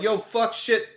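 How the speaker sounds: a hint of a Boston guy blurting out swears; Boston accent. Boston guy recognizing a famous guitarist, in a Boston accent. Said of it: "I'm like".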